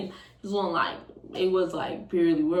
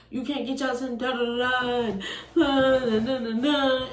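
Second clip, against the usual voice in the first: mildly raised mock nagging; mocking imitation; 4 semitones higher than usual. Mocking boyfriend's complaint.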